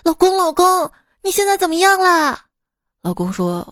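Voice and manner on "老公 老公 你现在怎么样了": high, loud mock-frantic wife; anxious wife. Wife reaching her injured husband's bedside, mock-frantic calling. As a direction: call out urgently, hammed-up worry.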